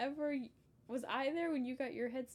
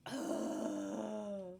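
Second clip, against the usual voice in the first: long, drawn-out sick groan; miserable inward groan; 3 semitones lower, 4 dB quieter than usual. Retold or imitated. Sick kid groaning inwardly during a bath, miserable. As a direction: groan like you feel awful inside. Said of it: "That's how I felt on the inside".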